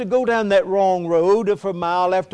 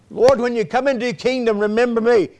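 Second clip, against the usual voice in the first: lightly voiced plea, raised in pitch; thief's simple prayer; 6 semitones higher than usual. Preacher voices the thief on the cross praying, pleading. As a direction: cry it out as a heartfelt prayer. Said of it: "the thief on the cross. Just a simple prayer".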